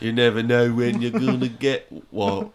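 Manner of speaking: lightly voiced British simpleton; British Forrest Gump. Comic continues the chocolates spoof, light British Forrest Gump accent. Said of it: "That's British Forrest Gump".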